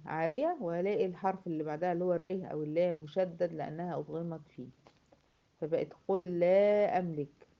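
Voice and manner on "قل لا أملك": قل لا slow, joined on a doubled L; merged lam. Shown as a demonstration. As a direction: stretch "qul-laa" in قل لا أملك. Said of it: "لو وقع بعدها حرفي الر أو اللام تضغم".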